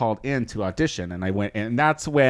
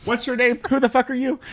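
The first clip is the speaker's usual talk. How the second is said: mock indignant; 11 semitones higher, faster than usual. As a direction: play it as a huffy diva. Imitating a rude reaction.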